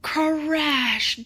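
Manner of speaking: loud, high dramatic crash. A narrator's reading. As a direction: boom it out like the fall itself. Tree crashes onto dinosaur.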